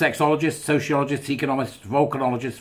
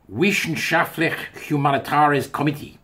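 a light mock German accent; playful put-on German accent; 4 semitones higher than usual. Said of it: "Why I put on a German accent".

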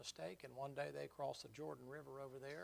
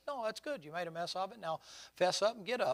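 higher, louder rallying cry; rousing call; 5 semitones higher, 10 dB louder than usual. Acted. The Lord rousing Peter to get up and go, loud. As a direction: lift him up and send him out.

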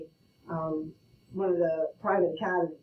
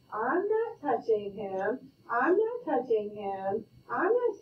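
sing-song sibling taunt; 2 semitones higher, much slower than usual. Retold or imitated. Younger sibling taunting brother.

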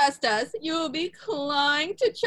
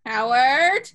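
calling out; 6 dB louder than usual. Acted. Calling him sharply.

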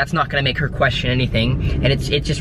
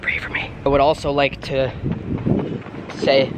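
whispering. Real, not acted. Whispering while sneaking around.

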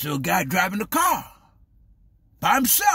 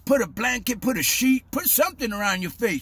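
higher, rattled-off list of commands; mock media orders; 4 semitones higher than usual. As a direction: lightly mimic an insistent announcer. Mimics media giving mask orders.

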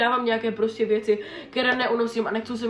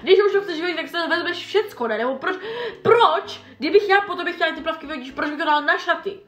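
exasperated rant; 5 semitones higher than usual. Real, not acted. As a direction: vent in disbelief to viewers.

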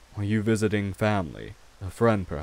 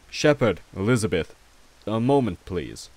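raised voice, calling across the hall; 4 dB louder than usual. Acted. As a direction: call the servants over. Calls housekeepers from across room.

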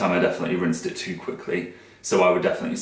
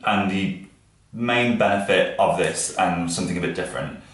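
losing the words, foggy-headed; hungover. Real, not acted. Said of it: "I'm really, really hungover".

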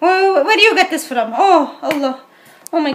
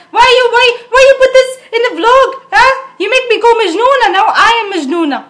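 high-pitched indignant rant; hammed-up angry scolding; exasperated scolding; 4 semitones higher than usual. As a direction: demand an explanation, worked up. Scolds Adam over the vlog.

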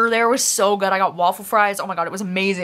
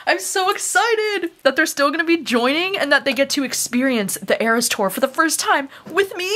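gushing excitement; 5 semitones higher than usual. Retold or imitated. Fan imagining friends' first Eras show.

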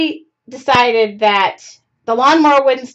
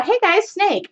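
excited call; 8 semitones higher than usual. Retold or imitated. Calling kids' attention on hike.

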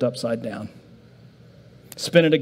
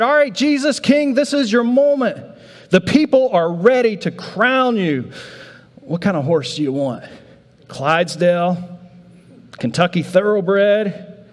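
excited disciples; 4 semitones higher than usual. Acted. Disciples urge Jesus to be crowned.

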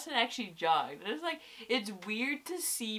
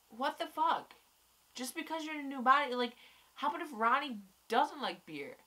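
higher-pitched, mildly angry protest; retold indignation; 6 semitones higher than usual. Viewer arguing back at Stein about beer, mildly indignant. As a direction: object in indignant disbelief, pitch raised. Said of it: "why I got so angry".

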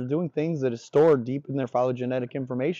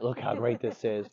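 positive contrast; 3 semitones lower, 4 dB quieter than usual. Shown as a demonstration. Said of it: "there's contrast".

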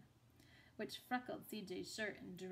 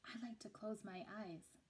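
softer, a gentle near-whisper; soft murmured line; hushed; 6 dB quieter than usual. Acted. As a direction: speak it softly like a secret. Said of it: "the blind man whispered".

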